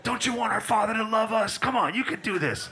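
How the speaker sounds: lightly voiced pep-talking coach; pushy trainer. A coach driving someone through push-ups, mock motivational urging. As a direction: urge them on with insistent, punchy commands.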